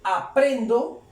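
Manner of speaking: slow, drawn-out words with rising ends; slow translation. Shown as a demonstration. Teacher translating for learners, slowly word by word. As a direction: stretch each word for learners.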